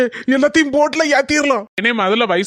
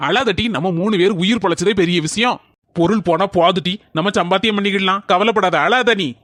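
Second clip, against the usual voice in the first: low-pitched, reassuring voice; consoling; 6 semitones lower than usual. Acted. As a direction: soothe a crying wife, pitched well down. Husband consoles crying wife after flood. (தாழ்ந்த குரலில் ஆறுதல்)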